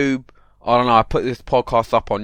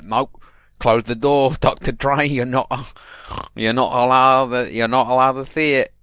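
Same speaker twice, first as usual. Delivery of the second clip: attempted American accent. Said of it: "I was trying to do an American accent right there".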